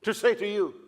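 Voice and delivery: Balaam hooking Balak with suspense; pressing prophet. Retold or imitated. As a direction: hold the listener on the line. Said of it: "Balaam says".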